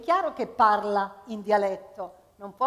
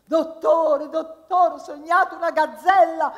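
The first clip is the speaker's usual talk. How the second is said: much higher, louder singsong wail; whiny patient; 6 semitones higher, 10 dB louder than usual. Acted. Patient wailing to the doctor about a dream.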